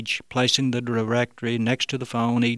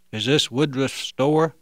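disguised voice. Acted. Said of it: "asked Bob in the disguised voice".

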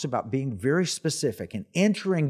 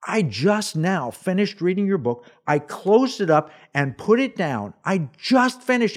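rising, eager disbelief; excited retold reply; retold amazement; 5 semitones higher than usual. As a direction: blurt it to your hero, pitch climbing.

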